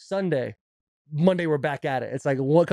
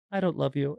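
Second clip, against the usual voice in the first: blunt rejection; 4 dB quieter than usual. Retold or imitated. Sister as the bunny rejecting the other girl, blunt imitation.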